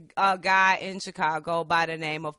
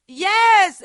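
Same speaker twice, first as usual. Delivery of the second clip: emphatic yes; 11 semitones higher, 13 dB louder than usual. Real, not acted. Emphatic agreement.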